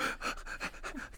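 quick breathy catches of a sob; imitated sobbing gasps. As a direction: mimic gasping for breath while sobbing. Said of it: "catching my breath, sobbing".

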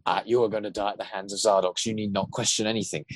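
lightly voiced jokey, boastful villain; a hint of a show-off monster taunting; boastful Zardox. Shown as a demonstration. Showing the Zardox voice as played, lightly boastful. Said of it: "He's sort of like".

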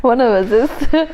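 laughing while saying it. Real, not acted. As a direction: giggle through the words. Repeat through laughter.

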